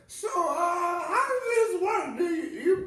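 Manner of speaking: put-on high, loud, fussy old-lady voice; confused old lady. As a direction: play a flustered old lady asking questions. Mimicking confused old ladies.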